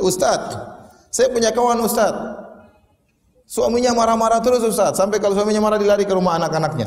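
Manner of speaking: a hint of a housewife pleading her case; complaining housewife. Woman telling the ustaz about her friend's husband, lightly acted complaint. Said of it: "ada ibu-ibu ngomong sama saya".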